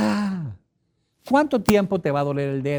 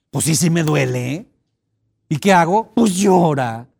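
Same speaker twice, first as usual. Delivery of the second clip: mock hurt whine; 5 dB louder than usual. Jilted partner scenario.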